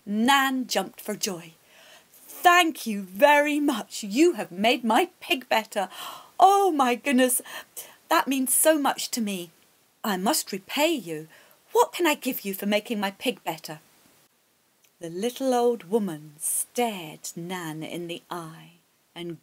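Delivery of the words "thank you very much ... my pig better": put-on a young mother gushing her thanks; grateful Nan. Nan thanks the old woman.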